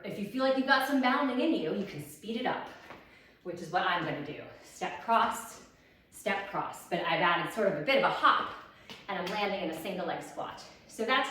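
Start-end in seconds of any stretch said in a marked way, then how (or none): 4.6-6.8 breathy whispered cue. Shown as a demonstration. Instructor demoing hops, whispered cue. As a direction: let it slip out on the hop. Demoing the faster bounding version.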